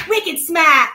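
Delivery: drawn-out Boston-area twang, Massachusetts accent. Shown as a demonstration. Joking about an accent creeping back, Massachusetts accent. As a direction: play up a Massachusetts accent, slowly. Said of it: "it's creeping back in".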